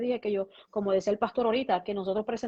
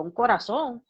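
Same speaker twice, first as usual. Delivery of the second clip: louder, incredulous echo question; imitating her own stunned reply; retold disbelief; 6 dB louder, slower than usual. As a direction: throw it back as a startled question. Echoes doctor's news as disbelieving question.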